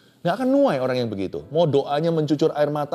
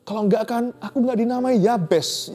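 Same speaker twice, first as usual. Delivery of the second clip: weeping prayer; 6 semitones higher than usual. Shown as a demonstration. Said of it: "Ini udah banjir pipi".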